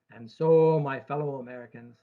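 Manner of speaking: put-on Kennedy-style Boston accent, punching the opening. Actuary quoting Kennedy to investors, in a Boston accent. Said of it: "that's my Boston accent".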